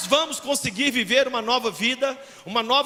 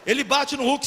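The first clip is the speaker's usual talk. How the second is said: ordinary talk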